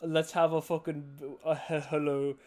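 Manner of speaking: lightly voiced goofy cartoon frog; a loose, silly frog impression; Mister Frog. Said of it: "I'm Mister Frog".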